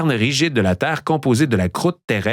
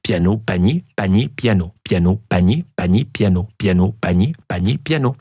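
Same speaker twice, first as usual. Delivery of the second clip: tongue twister drill; 5 semitones lower than usual. Shown as a demonstration. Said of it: "répétez trois fois".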